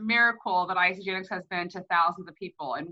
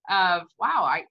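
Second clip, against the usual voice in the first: throat catching with emotion; choked up. Real, not acted. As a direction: voice catching, moved, halting. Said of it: "my throat caught a little bit there".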